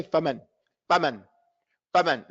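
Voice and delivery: short "faman", first a rushed; wrong vowel length. Shown as a demonstration. Teacher shows what you can't say, mispronounced. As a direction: snip "faman" short, vowels not held. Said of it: "You can't say".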